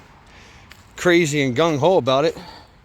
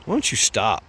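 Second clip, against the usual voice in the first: body's inner voice; 4 semitones lower than usual. Retold or imitated. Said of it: "my body is just telling me".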